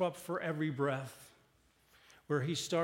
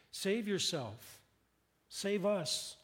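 mild mockery; 5 semitones higher, slower than usual. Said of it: "start to mock him".

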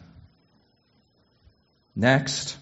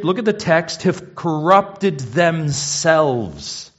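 loud, raised, insistent sermon voice; fervent preaching; 7 semitones higher, 5 dB louder than usual. Acted. Preacher driving home God's anger to the congregation, fervent. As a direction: hammer it home from the pulpit.

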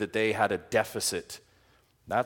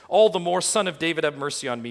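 loud pleading call, higher and louder; desperate cry; 7 semitones higher, 7 dB louder, faster than usual. Retold or imitated. Preacher voicing a blind beggar crying to Jesus, loud and pleading. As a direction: cry out for mercy as if drowning. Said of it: "And he says".

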